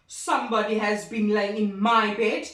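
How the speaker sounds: a loud papa bear, lightly voiced; great big bear voice. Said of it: "in his great big voice".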